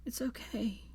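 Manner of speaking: soft soothing whisper; shushing whisper. A narrator's reading. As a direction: hush him like a child. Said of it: "she shushed".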